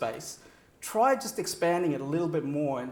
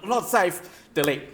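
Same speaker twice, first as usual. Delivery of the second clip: slow, wary muttered thought; slow uneasy inner voice; slower than usual. Retold or imitated. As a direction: voice the listener's unease slowly. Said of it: "you're gonna feel like".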